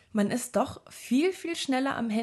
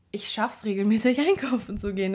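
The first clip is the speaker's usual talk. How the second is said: laughing at herself; 4 dB louder than usual. Real, not acted. Jokes about own small wins.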